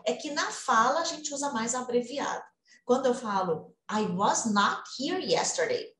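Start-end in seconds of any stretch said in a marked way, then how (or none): 3.9-5.9 "I was not here" spelled out word by word, slow; emphatic uncontracted. Shown as a demonstration. Teacher shows how the uncontracted form sounds to students, slow and emphatic. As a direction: stress the "not" like the listener isn't hearing you. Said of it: "você tá querendo enfatizar".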